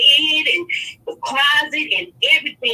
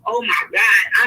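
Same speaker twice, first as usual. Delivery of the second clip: slow, loud shocked gasp of words; shocked oh my God; 3 semitones lower, 4 dB louder, slower than usual. Retold or imitated. Caller recalling her shock at her friend's frenzy, slow loud disbelief. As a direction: drag it out, stunned and loud. Reacting to friend tearing room up.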